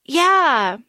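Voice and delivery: mock defiant Malini. Malini answering Karthik while bleeding, mild mock defiance. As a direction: play the wounded woman spitting it back. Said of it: "And Malini's like".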